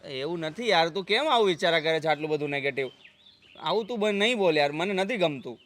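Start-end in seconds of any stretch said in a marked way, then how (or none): 3.6-4.7 louder, higher plea; pleading outburst. Acted. Husband pleads with wife to stop talking so, loudly. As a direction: beg her to stop, voice raised.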